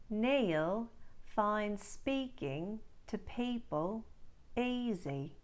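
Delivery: slow Australian sentence drill; Australian practice line, slow and clear; Australian accent demo. Shown as a demonstration. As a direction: read it slowly in an Australian accent. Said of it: "Let's try some words and phrases for practice".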